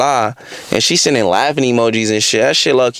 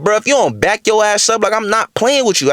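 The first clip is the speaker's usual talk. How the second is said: higher-pitched, insistent back-off; retold warning; 7 semitones higher than usual. Warning the faded woman walking towards him, indignant. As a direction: act out warning someone away. Warns her as she approaches.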